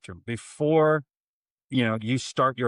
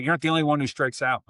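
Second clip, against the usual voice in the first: coach barking; 5 semitones higher, faster than usual. Retold or imitated. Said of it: "knife hands and screaming at her".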